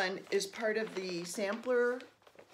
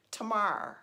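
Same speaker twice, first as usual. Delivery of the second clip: put-on Baltimore accent; 2 semitones higher, 3 dB louder than usual. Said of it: "My mother-in-law says".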